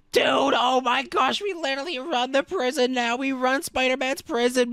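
high, excited exclamation; thrilled realization. Pretend. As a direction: stretch the opening cry in amazement. Realizes they run the prison.

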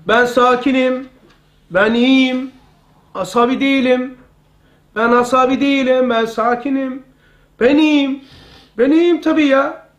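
mildly emphatic self-affirmation; kendine telkin. Shown as a demonstration. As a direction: repeat it to yourself in short, separate, insistent phrases. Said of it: "deyip bağır ve kendine telkin yap". (kendine telkin verir gibi, hafif vurgulu)

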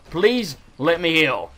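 slow, stretched-out begging; drawn-out plea. Real, not acted. Gamer under attack begging to heal, slow drawn-out plea. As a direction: beg slowly, lingering on each word.

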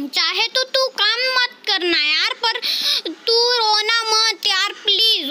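high, insistent begging; imploring whine of a plea; pleading. Pretend. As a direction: plead with a child not to cry. Begging girl not to cry.

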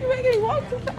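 breathless complaint; out of breath. Real, not acted. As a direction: talk while winded from walking. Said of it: "she out of breath too".

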